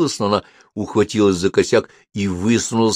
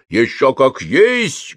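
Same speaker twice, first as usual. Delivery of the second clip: proud; 6 semitones higher, 4 dB louder, much slower than usual. A narrator's reading. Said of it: "гордо заявил Кальцифер".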